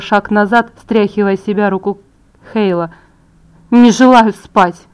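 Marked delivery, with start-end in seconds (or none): 3.7-4.9 defiant declaration. A narrator's reading. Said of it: "заявила я".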